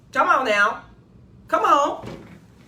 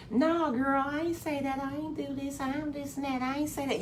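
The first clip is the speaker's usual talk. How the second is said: mock denial; 3 semitones higher, 8 dB quieter than usual. Mocking a complaining listener.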